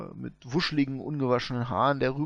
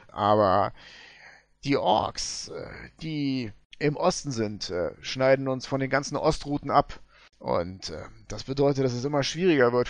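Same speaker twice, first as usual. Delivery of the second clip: gold prospector; 3 dB louder than usual. Acted.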